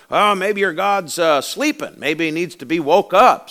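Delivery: high-pitched teasing; mocking taunt. Elijah making fun of Baal's prophets, mocking. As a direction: make fun of them with mock concern. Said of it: "Elijah starts making fun of them".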